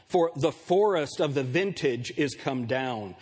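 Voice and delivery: measured, declaimed Bible reading; scripture reading. Acted. Preacher reading Zechariah to the congregation, declamatory. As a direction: declaim it slowly, lifting each cry of howl.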